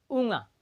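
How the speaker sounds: ऊँगा said with a nasal ऊँ and a soft गा; correct pronunciation. Shown as a demonstration. Teacher showing pupils the right way to say ऊँगा, clear demo. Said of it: "सही उच्चारण है वो है क्या".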